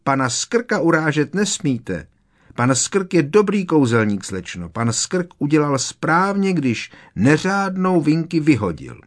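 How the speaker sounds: high, shrieky elf protest; high-pitched, outraged creature voice; screeching. A narrator's reading. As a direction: defend the master in a high screech. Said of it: "zavřeštila".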